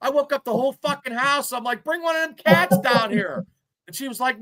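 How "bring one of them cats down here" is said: half-yelled plea, pitched up; mock panicked yell. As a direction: play the scared big guy yelling for the cat. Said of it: "I'm screaming like a little bitch".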